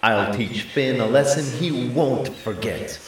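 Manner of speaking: a touch of gruff threat; angry giant. A narrator's reading. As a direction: threaten with rage. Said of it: "Angus flew into a rage".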